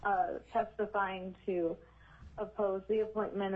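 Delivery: numb mouth after wisdom teeth; talking with a numb mouth; numb from the dentist. Real, not acted. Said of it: "my mouth is a little numb".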